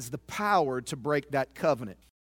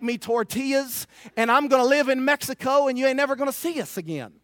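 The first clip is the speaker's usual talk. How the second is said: raised, forceful voice of past attitude; defiant ultimatum; 5 semitones higher, 5 dB louder than usual. Retold or imitated. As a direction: lay down a hard threat, high and loud. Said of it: "that was my attitude".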